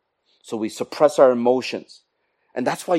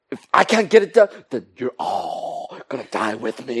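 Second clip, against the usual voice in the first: mock sinister martyr; a hint of a vengeful saboteur; spiteful threat. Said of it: "So you go".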